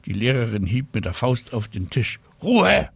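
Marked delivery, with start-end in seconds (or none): 2.4-2.9 much higher, louder sharp cry for silence; teacher silences the class; teacher's shout. A narrator's reading. Teacher bangs fist on table. (Lehrerin schreit: Ruhe!, lauter und höher)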